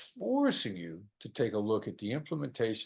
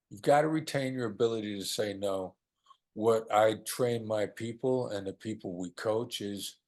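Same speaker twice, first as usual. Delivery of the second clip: ordinary delivery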